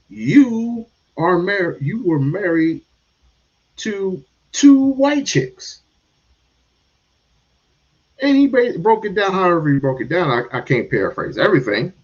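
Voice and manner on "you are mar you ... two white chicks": slow, pointed quote rising high; quoting Ryan Clark. Retold or imitated. Ryan Clark telling RG3 the truth, slow and pointed. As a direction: spell it out slowly. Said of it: "he was basically saying".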